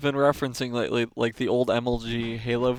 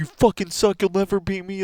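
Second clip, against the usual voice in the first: put-on scream, much higher than normal voice; 7 semitones higher, 4 dB louder than usual. Describing kids at a monthly event taunting the other team: imitating someone screaming. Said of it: "they're screaming like".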